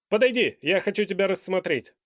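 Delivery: loud, high, lordly command; a vain monarch summoning his subject; proud king. A narrator's reading. King's voice.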